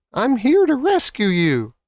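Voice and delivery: tiny mouse bravely rescuing the lion, high. Acted. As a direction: announce the rescue proudly.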